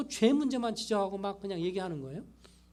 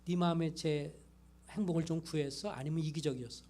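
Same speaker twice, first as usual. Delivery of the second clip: put-on soft, gentle questions to a child; quietly coaxing a child to reflect; gentle questioning; 2 semitones lower, 4 dB quieter than usual. Shown as a demonstration. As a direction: ask it softly, like a caring parent. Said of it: "그럴 때 부드럽게 얘기하면서".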